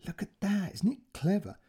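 high, lightly impressed exclamation; admiring policeman. Acted. Policeman shows his colleague the tattoo, admiring.

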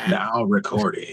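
low, slow announcement voice; recording-bot voice. Retold or imitated. Friend mimicking the recording announcement, slow bot voice. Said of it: "he has that voice".

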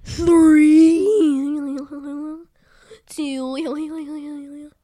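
eating contest. Real, not acted. Countdown before eating chips.

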